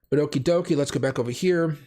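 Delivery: hoarse from a cold; rough, scratchy cold voice; raspy voice. Real, not acted. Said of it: "for my raspy voice".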